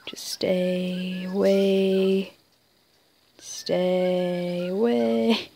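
hushed, slow, low and soft; tense whisper. Real, not acted. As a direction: breathe it out so nobody hears. Sneaking away from a threat.

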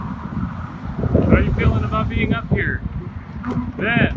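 loud, high, slow call; shouting. Real, not acted. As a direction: call out over the wind. Calling over wind up high.

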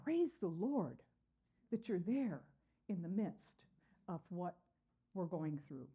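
grateful praise. Retold or imitated. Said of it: "It's like".

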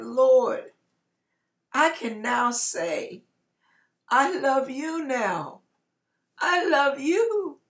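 tearful cry to God. Retold or imitated. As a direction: cry out to the Lord, pouring out love. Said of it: "by now I'm bawling, I'm crying".

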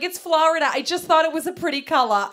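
imitating mom, high and loud; defensive excuse. Mom excuses the fuel mistake to her daughter, high and defensive.

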